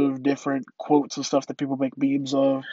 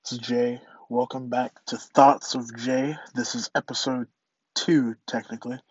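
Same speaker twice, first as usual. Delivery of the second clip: congested, blocked-nose voice; stuffy nose; 3 semitones lower than usual. Real, not acted. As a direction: talk through a stuffed-up nose. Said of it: "sorry if I sound a little congested".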